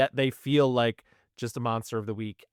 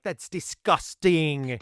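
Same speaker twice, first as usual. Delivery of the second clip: mock Jackie; 4 semitones higher, much slower than usual. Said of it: "is like".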